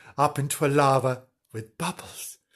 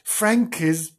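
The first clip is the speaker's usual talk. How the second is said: high-pitched call for mummy; hammed-up child's cry for help; shouted alarm; 8 semitones higher, slower than usual. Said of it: "shouted the idiot emotion".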